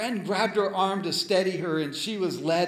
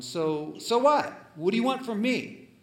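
mimicking a nasty put-down; nasty retort; 2 semitones higher than usual. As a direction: sneer it back like a scornful friend. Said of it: "in a nasty tone".

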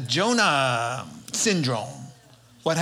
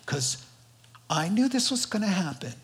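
hammed-up tantrum, building to a very high, loud squeal; Jonah angry; 8 semitones higher, 3 dB louder than usual. Jonah protesting to God about sparing the barbarians, mock outrage. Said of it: "I'm angry enough to die".

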